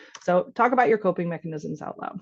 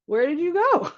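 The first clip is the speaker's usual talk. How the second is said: put-on sniffly toddler; 9 semitones higher than usual. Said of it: "be like".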